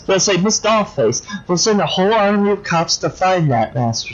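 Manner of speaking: lightly voiced petulant little-girl villain; childish doll villain. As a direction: pout and whine like a spoiled doll. Dollface imagines her parade.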